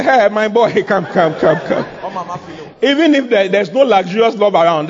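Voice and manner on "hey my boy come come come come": tag. Acted. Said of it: "God will say".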